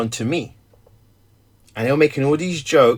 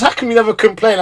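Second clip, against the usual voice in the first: wife's voice; 8 semitones higher, 3 dB louder, faster than usual. Retold or imitated. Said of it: "She goes".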